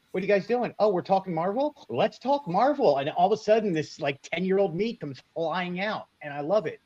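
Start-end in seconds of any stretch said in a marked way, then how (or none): 0.1-3.0 playing the clueless dad joining in. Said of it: "I can be the dad in the family and just go".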